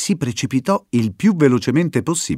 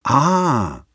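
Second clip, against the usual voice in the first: exclaiming; 3 semitones higher than usual. Acted. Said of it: "esclamò Dulce".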